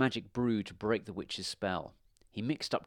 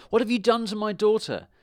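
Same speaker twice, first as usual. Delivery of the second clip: loud, high-pitched outraged demand; raised-voice, urgent accusation; farmer's shout; 11 semitones higher, 7 dB louder than usual. A narrator's reading. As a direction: shout it as a distraught father. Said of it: "shouted the farmer".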